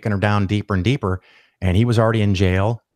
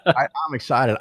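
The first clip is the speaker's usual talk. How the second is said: settled, chuckling restatement; same glee but calmer, through a laugh; laughing repeat; 2 semitones higher than usual. Real, not acted. Host repeating his eagerness to the listener, chuckling.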